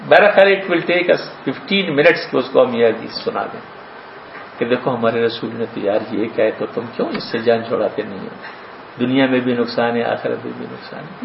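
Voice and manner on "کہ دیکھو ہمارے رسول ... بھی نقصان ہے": low, easy, unpressured advice; calm, gentle counsel. Acted. Doctor gently sharing a hadith with the patient, calm. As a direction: counsel quietly, without preaching. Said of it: "آرام سے ایک".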